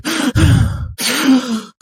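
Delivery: high, drawn-out mock sniffling breaths; wordless gasping, hammed-up; imitated tearful gasps. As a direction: mimic someone catching breath after crying. Imitates her after the tattoo fix.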